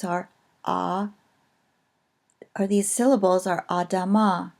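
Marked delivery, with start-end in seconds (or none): 3.7-4.5 "adama" with the final "ma" stressed; stress on last syllable. Shown as a demonstration. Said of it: "stress is going to be on the last one".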